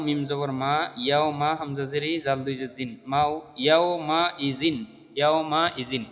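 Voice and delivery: steady Qaida-lesson recitation; spelling drill recitation. Shown as a demonstration. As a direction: build each word piece by piece for learners. Resumes spelling demonstration.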